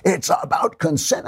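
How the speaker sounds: high, slow mocking whine of an angry critic; high mocking imitation of screaming critics; mock screaming leftist. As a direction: lampoon the outraged left in a whiny voice. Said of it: "they start screaming".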